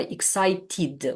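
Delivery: EXCITED split into clear syllables, ending in "tid"; teacher sounding out EXCITED, last syllable distinct; pronounced -ed vowel. Shown as a demonstration. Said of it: "we cannot omit using this vowel sound".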